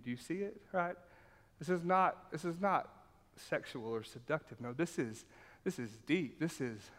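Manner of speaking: ordinary talk, nothing marked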